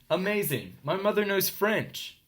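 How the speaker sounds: slow, high marvelling exclamation; amazed. A narrator's reading. Nancy amazed at her mother, high and slow. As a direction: gush at mom's French.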